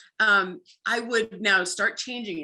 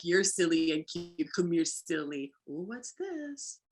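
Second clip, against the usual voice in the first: calming down; 2 semitones lower, 4 dB quieter, slower than usual. Shown as a demonstration. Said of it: "then we slow it down".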